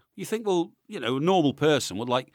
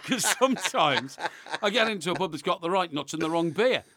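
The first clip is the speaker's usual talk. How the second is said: laughing. Real, not acted.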